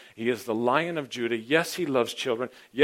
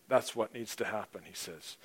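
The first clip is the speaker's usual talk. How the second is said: ordinary talk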